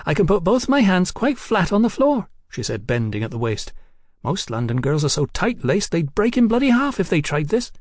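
put-on high, giddy voice of a tipsy young woman. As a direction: play her high and cheeky. Hetty voiced by narrator.

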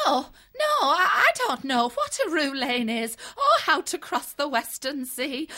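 flustered. Acted. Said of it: "She waved her paws in agitation".

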